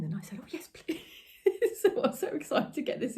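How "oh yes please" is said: high whispered delight; breathy eager yes. Retold or imitated. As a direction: gasp it with glee. Eager reply to fabric offer.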